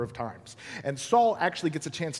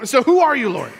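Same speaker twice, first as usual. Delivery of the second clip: Saul crying out; 8 semitones higher, 11 dB louder than usual. Acted. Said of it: "He asked that question".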